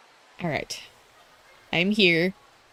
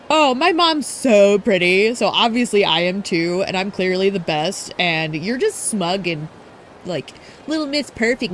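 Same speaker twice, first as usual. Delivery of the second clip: mocking Ulala. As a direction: mimic the bragging brat with scorn. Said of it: "Where it's like".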